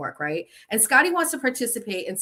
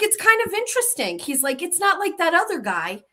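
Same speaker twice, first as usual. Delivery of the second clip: much higher mock husband voice; quoting husband; 9 semitones higher than usual. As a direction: lightly mimic him, pitched way up.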